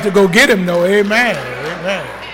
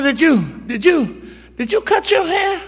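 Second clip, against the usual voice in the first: rising higher with each "did you"; suspicious questioning; 8 semitones higher, 3 dB quieter than usual. Retold or imitated. Father interrogating son over his haircut, rising. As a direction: press him, climbing in pitch.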